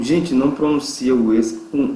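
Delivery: usual speaking voice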